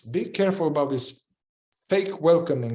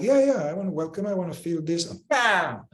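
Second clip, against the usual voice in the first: fake welcoming; 3 semitones higher than usual. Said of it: "a fake welcoming will be like".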